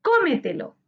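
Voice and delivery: Cómetelo with CÓ high, then falling away; stress on CO. Shown as a demonstration. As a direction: hit CÓ in Cómetelo, let the rest drop. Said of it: "Su sílaba tónica está en co". (Cómetelo con acento marcado en CÓ)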